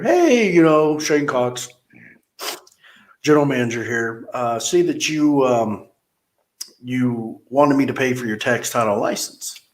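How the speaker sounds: a hint of a smug general manager greeting customers; mock boss. Boss voiced in retold story.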